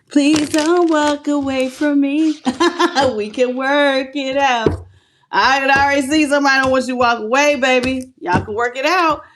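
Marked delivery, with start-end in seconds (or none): 0.1-4.8 pleading lover. Acted.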